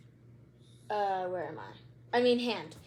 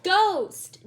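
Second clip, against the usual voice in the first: louder and higher, ghost yelped in fright; scared yelp; 5 semitones higher, 8 dB louder, much slower than usual. A narrator's reading. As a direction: yelp it like a startled kid. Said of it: "Judy yelped".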